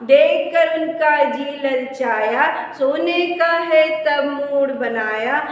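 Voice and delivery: slow, evenly beaten verse; children's rhyme recitation. Shown as a demonstration. Teacher teaching हाथी दादा to pupils, slow rhythmic recitation. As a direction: chant the rhyme line by line, drawing out the words.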